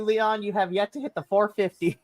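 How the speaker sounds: ordinary delivery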